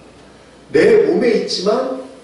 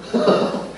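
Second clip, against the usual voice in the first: short amused laugh. Retold or imitated. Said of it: "속으로는".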